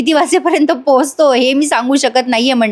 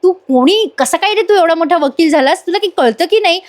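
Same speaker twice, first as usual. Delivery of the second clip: higher, playful mock scolding; teasing; 5 semitones higher than usual. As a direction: rib him, big brother style. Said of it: "अर्जुनला चिडवतात".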